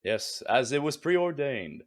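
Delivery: slow, solemn and smug; self-righteous. Acted. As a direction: pronounce it like fate itself. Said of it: "You got the self-righteous voice?".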